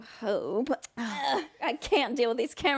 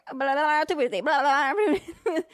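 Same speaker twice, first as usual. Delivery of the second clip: auctioneer; 3 semitones higher, 4 dB louder than usual. Shown as a demonstration. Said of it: "like an auctioneer?".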